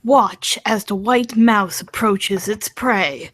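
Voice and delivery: slow mock wildlife documentary narration; drawn-out mock documentary voice, deadpan; nature documentary narrator. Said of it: "David Attenborough voice".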